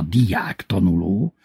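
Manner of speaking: "diák tanuló" dragged out slowly; mimicked pronunciation. A narrator's reading. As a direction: draw out "diák tanuló", rising at the end. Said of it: "így mondta". (vontatottan ejtett „diák tanuló”)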